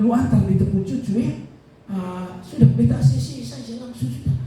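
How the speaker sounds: imitating a happy caller, high voice; high, cheery retold phone voice; cheerful phone report. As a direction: pitch it up, relaying good news cheerfully. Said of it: "nada di sana tuh nada ceria".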